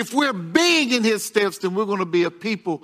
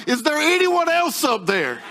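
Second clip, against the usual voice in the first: higher, laughing punchline cry; a mock panicked higher cry through laughter; cried out, laughing; 7 semitones higher than usual. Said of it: "the man cried out".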